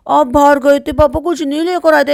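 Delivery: high-pitched mock grievance; mimicking coached complaint. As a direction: imitate a child told to complain to papa. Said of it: "कहते".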